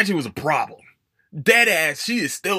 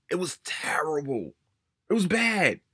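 whispered; 3 semitones higher than usual. Real, not acted. Whispered aside after complaint.

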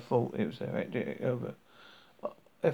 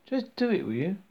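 impatient shout, pitch jumping high on do; 7 semitones higher, 4 dB louder than usual. A narrator's reading. Zaphod shouting at Marvin to just get on with it. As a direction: bark it out, fed up with the robot. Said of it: "he said, shouting".

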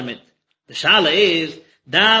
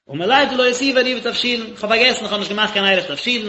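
raised, pleading voice of a blind man who forgot; plaintive lament; 4 semitones higher, faster than usual. Retold or imitated. Blind man pleads with the prophet over his forgotten eruv, raised and plaintive.

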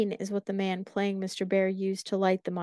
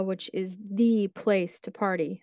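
sarcastic. Real, not acted.

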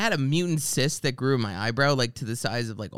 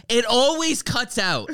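mild mock yell; 10 semitones higher, 4 dB louder, slower than usual. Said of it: "I just truly wanted to scream".

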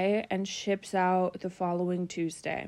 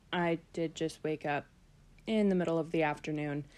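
morning voice; 3 semitones lower, faster than usual. Real, not acted. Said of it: "I do apologize about my morning voice".

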